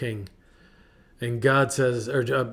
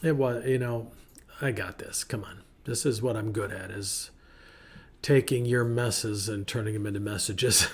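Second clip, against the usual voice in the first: soft reassurance; 2 semitones lower, 5 dB quieter than usual. Retold or imitated. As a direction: gently assure them it's fine. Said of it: "God's like".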